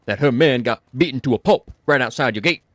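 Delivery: loose attempt at a singer's accent; a singer's accent drifting into other accents. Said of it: "the singer's accent".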